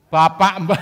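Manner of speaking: put-on laughing high call of a little child; laughing as he mimics the child; child's voice. Mimicking the child who hugs him, laughing.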